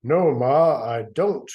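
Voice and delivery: a hint of a frightened little girl denying; scared little girl. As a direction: protest like a frightened child. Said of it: "Gwen said".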